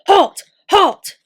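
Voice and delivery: loud, high sentry shout; shouting halt. A narrator's reading. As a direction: bark the order to stop. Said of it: "when he heard shouts ahead".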